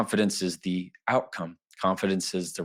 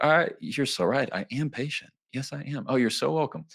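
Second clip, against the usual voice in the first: mock flattered; 6 semitones higher than usual. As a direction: purr it like a flattered colleague. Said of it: "They're gonna think".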